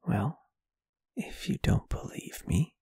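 ordinary talk, nothing marked

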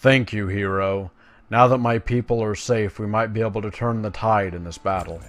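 lightly voiced, urgent quest-giver; earnest elf commander. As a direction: read it as an elf leader rallying a champion. Reads grateful quest-giver's dialogue.

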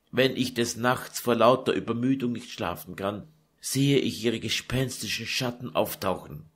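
put-on a tired young woman pouring out her grief; Lucretia lamenting. Daughter pouring out her sorrow to her mother, weary.

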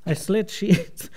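careful put-on Irish tongue twister; lightly Irish recitation; Irish accent. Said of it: "making fun of my accent".

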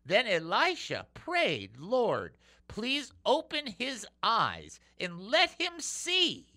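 slow, lifted Bible reading; slow sermon reading voice; scripture reading. Acted. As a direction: read the prayer with weight and lift.

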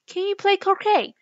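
high, loud queen's shout. A narrator's reading. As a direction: shout the question imperiously. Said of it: "shouted the queen".

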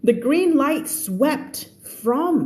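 slow, deliberate reading aloud; story read-aloud. Acted. Teacher reading the story to online students, slow read-aloud. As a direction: read it out slowly, word by word.

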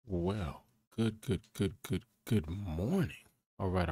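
loud, low radio-host intro; morning show host. Acted. Welcoming viewers to the morning show, loud host voice. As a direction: boom it out like a morning DJ.

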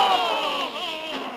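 a sudden startled shout; startled cry. Acted. Sailor crying out as lightning strikes the ship, startled shout.

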